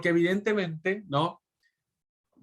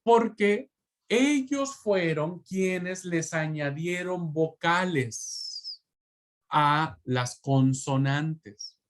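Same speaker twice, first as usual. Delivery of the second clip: slow emphasis; 2 semitones higher, slower than usual. Shown as a demonstration. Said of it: "esto es muy importante que lo sepan".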